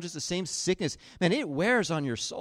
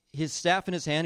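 usual speaking voice

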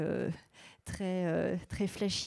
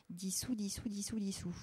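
playful whisper; 6 dB quieter than usual. Real, not acted. Host toying with the word to listeners, whispered. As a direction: whisper the word over and over, amused.

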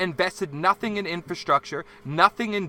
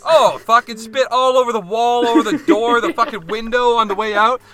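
excited; 6 semitones higher, 9 dB louder than usual. Retold or imitated. Excited telling of the spitting.

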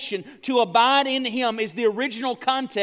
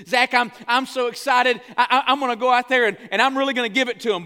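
louder, eager imitation of a pumped-up player; retold excitement; 3 semitones higher, 4 dB louder, faster than usual. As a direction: imitate a pitcher raring to go. Retold pitcher pumped up before game.

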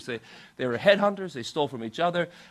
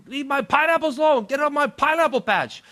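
raised, indignant shout, pitched up; angry missionary; 6 semitones higher, 5 dB louder than usual. Retold or imitated. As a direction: holler at thieves in mock outrage. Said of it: "he would get so angry".

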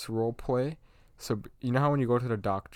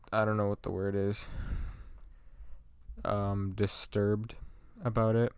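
whispering; 6 dB quieter than usual. Real, not acted. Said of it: "You're still whispering".

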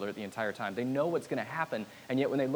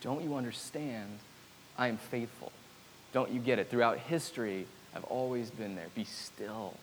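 tender Jesus voice; 5 dB quieter than usual. Retold or imitated. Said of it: "in Jesus' way of, like".

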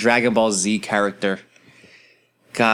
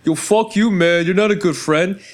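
mock angry friend; 7 semitones higher than usual. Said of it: "getting mad at you".

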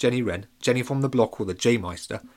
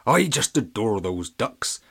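muttering Granny Duck; 4 dB louder, slower than usual. A narrator's reading. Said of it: "you would hear her mutter to herself".

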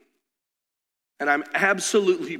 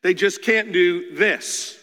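higher, louder, pleading wife voice; imitating wife; 5 semitones higher, 4 dB louder, slower than usual. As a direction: mimic his wife's protest. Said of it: "My wife says".

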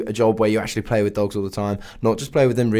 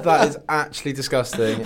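laughing; 4 semitones higher than usual. Real, not acted. Laughing at gross dog story.

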